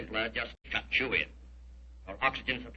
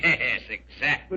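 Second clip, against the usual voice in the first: laughing villain; slower than usual. Acted. Villain laughs at being exposed.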